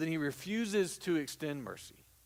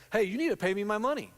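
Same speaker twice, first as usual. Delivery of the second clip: demanding servant; 6 semitones higher, 5 dB louder, faster than usual. Acted. Servant demands money in parable.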